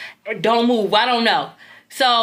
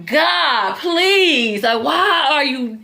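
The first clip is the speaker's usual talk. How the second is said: pleading with God; 3 semitones higher than usual. Retold or imitated. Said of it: "I'm pleading with God".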